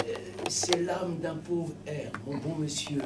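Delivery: soft, slow humble plea; timid soul. Acted. The poor soul answering Saint Peter, timid and soft. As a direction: answer meekly at the gate. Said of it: "que je lui dis".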